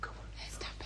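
hushed whisper.

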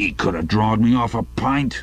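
put-on grousing, put-out grumbling old man voice. An old man settling down behind his glass, grumbling. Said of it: "grumbled the old man".

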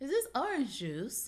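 rising then falling pitch over orange juice. Attempting to imitate a way of speaking, with up-then-down intonation. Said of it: "How it goes up and then comes down".

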